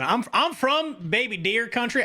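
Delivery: playful mock Southern accent. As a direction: drawl it out like a joking Southern local. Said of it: "I said that with a Southern accent".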